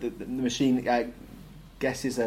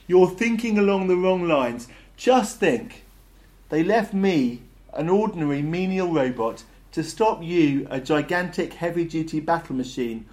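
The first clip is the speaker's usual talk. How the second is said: higher, louder robot's explanation; exasperated robot; 5 semitones higher, 5 dB louder than usual. A narrator's reading. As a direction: spell it out to the battle machine, raised voice. Marvin lectures the battle machine.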